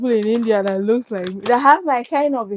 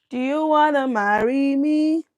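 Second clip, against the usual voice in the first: whisper; 3 semitones higher than usual. Real, not acted. Teasing viewer marriage proposal.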